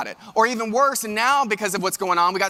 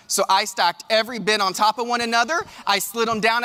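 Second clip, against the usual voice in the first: normal talking voice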